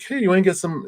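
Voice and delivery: high-pitched, eager asking-out; excited invitation. Acted. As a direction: act out an excited coffee invite. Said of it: "See how excited I am?".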